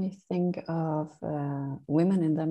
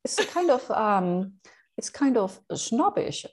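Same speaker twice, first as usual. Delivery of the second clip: snobbish English accent; 5 semitones higher than usual. Shown as a demonstration. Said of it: "I feel like a snob when I talk like this".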